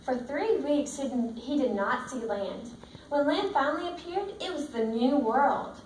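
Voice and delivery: steady storybook read-aloud to the class; reading to children. Acted. Teacher reading the book to her class, in a steady storybook voice. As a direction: read it out like a picture book for the kids.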